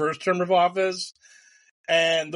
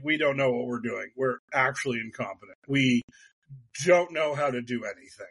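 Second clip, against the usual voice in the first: lower, sheepish mock confession; lightly voiced dim officials owning up; dopey DOJ; 6 semitones lower than usual. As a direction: play them as clueless and meek. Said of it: "the D O J was like".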